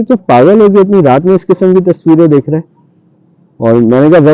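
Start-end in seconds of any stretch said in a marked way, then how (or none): 0.0-2.6 pitched higher, a retold telling-off; annoyed scolding. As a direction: scold him the way I did that night. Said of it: "मैंने उसको नाराजगी के अंदाज में बोला". (नाराज़गी से डाँटते हुए)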